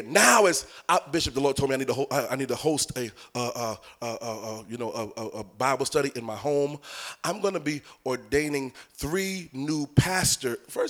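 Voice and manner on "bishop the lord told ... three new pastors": mock overeager convert. Mocking an overeager new convert.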